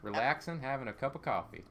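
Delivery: relaxed Southern accent; laid-back Southern lilt. Shown as a demonstration. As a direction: ease into a calm Southern voice. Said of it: "using my Southern voice".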